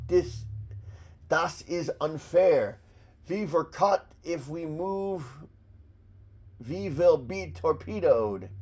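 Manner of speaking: put-on German accent with v for w; hammy German accent, measured out in pieces; phony German accent. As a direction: act a caught officer in mock German. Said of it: "the phony accent should work".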